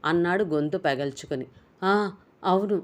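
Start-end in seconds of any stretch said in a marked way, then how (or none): 1.8-2.8 fuming anger. A narrator's reading. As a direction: snap it out in a fury. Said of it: "కోపంతో మండిపడుతూ అన్నాడు". (కోపంతో మండిపడుతూ)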